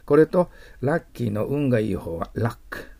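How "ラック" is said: short, back-of-the-nose vowel in ラック; English "luck". Shown as a demonstration. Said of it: "鼻の奥であと言います".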